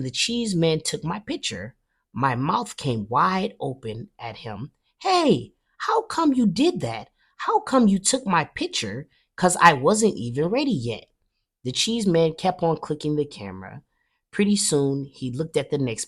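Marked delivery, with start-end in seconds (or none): 5.0-11.0 high, loud, outraged protest; indignant outburst. A narrator's reading. Girl yelling at the cheese man for snapping her picture, indignant. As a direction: shout it like a kid cheated of her turn.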